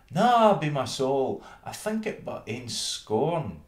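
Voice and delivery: high, loud scornful mouse voice; scornful town mouse. Acted. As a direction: scoff at the meal.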